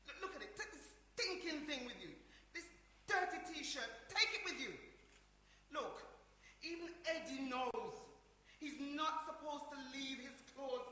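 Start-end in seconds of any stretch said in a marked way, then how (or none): 0.1-4.7 laughing scold. Acted. Laughing while scolding brother.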